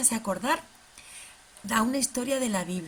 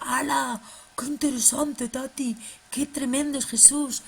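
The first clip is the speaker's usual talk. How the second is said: puppet voice; 3 semitones higher than usual. Acted. Fede the puppet greeting Tati, bright and excited. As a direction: bounce it like an excited kids' puppet.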